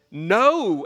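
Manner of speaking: loud, drawn-out "No!"; a firm, punched refusal; emphatic refusal. Acted. Husband firing back a telegram to his wife, emphatic refusal.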